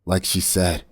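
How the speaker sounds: a touch of a hissed, bitter warning. Acted. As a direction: spit it out grimly. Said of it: "Rowan, now slightly more awake, hissed".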